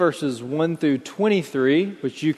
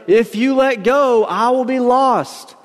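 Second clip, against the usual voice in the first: high, slow, measured warning; mild plea; 9 semitones higher, 3 dB louder, slower than usual. A narrator's reading. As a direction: plead from the end of the rope, understated. Dangling man pleads for life.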